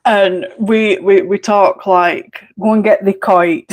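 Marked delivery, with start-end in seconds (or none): 2.6-3.6 broad Yorkshire Barnsley dialect, "the coat" for your coat; Barnsley slang. Shown as a demonstration. Showing online friends her Barnsley dialect, broad Barnsley. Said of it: "what we call Barnsley slang".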